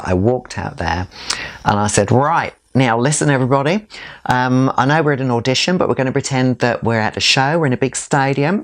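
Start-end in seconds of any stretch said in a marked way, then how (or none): 2.1-8.6 higher-pitched stage character calling a room to order; Sheila. Retold or imitated. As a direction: lift the voice into a showy hostess persona. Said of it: "I just assumed the character of Sheila".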